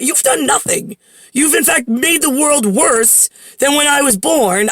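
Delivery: mock confrontation, indignant; indignant rebuke. Imagined telling-off of her dad.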